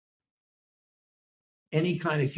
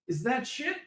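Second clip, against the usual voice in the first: dog's voice. Retold or imitated. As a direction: speak as the puzzled dog Gus. Voices the dog Gus.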